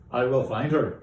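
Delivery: hero's vow to himself; determined vow. Acted. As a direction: say it with resolve. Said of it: "he says".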